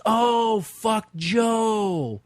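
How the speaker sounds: a hint of the singer's voice; singer's reply. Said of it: "and he goes".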